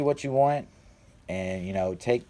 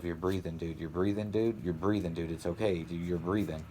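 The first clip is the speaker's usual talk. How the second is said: low, soft, repeated self-reassurance; reassuring self-talk; 3 semitones lower, 7 dB quieter than usual. Retold or imitated. Telling himself in his mind he can breathe, softly reassuring. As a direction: quietly talk yourself down. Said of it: "I was telling myself".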